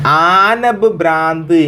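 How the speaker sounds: ആനബ് ഭ്രാന്ത് run together, the joining b sounded clearly; teacher modelling the joined form ആനബ് ഭ്രാന്ത്; pronounced as one word. Shown as a demonstration. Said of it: "അങ്ങനെ pronounce ചെയ്തോ".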